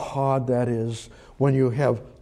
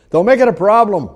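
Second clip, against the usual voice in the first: mock dismissive voice; 6 semitones higher, 7 dB louder, faster than usual. Mocking voice of a dismissive person.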